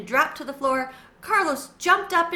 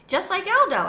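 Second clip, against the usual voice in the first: squeak; 8 semitones higher, 6 dB louder than usual. A narrator's reading. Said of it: "I squeaked".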